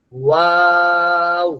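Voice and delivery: ওয়াও held with rounded lips; drawn-out waw. Shown as a demonstration. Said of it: "ওয়াও এর উচ্চারণটা". (ঠোঁট গোল করে টেনে ওয়াও)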